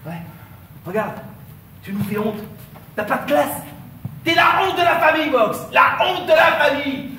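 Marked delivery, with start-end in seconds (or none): 4.2-7.1 contemptuous shout. Acted. Insulting Box in quarrel.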